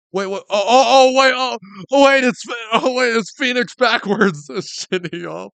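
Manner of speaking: loud, high excited shouting; sudden realization. Real, not acted. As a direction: yell out the eureka moment. Realizing the name's joke.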